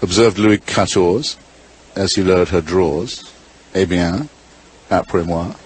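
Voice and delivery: measured verse with teasing pauses; limerick recitation. Acted. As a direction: hold back each phrase before the punchline.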